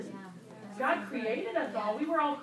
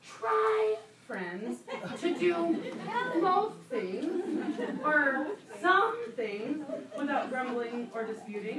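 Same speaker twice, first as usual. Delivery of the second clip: drawn-out, lightly mocking hedging; slow the hedges as if bargaining; watered-down Paul; 2 semitones higher, slower than usual. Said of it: "He could have said".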